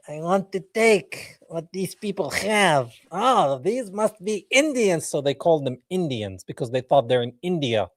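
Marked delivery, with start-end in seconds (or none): 0.1-5.1 a lightly voiced, higher mock explorer; mock Columbus. Imitating Columbus arriving in America, mocking him. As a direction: play the explorer as a greedy fool, higher pitch. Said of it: "he's like".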